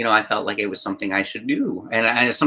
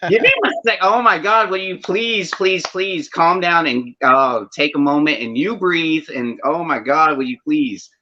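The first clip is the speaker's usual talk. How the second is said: higher, pleading at the screen, begging him to calm down; an exasperated viewer losing patience, mock pleading; exasperated plea; 3 semitones higher than usual. Viewer pleading with the character on screen, exasperated and higher. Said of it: "be like".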